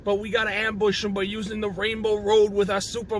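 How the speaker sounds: lightly voiced old Jewish comedian; a hint of an old comic's delivery; Cranky Kong. Ape elder laying out the ambush plan, old Jewish comedian voice. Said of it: "he sounds like an old Jewish comedian".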